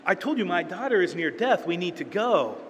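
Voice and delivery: a desperate father pushing back, impatient; exasperated plea. Retold or imitated. Jairus urging Jesus to hurry, exasperated and pleading. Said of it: "He's gotta be like".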